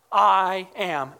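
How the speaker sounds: "I am" set apart, with weight on "I"; emphatic I AM. Retold or imitated. Prophet answering who he is, emphatic stress on "I am". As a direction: land firmly on "I am".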